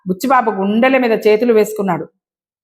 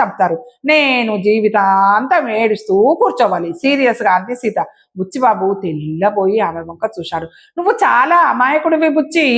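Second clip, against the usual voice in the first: story narration. A narrator's reading. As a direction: read the story out, acting each character's lines. (నాటకీయంగా కథ చదివే స్వరం)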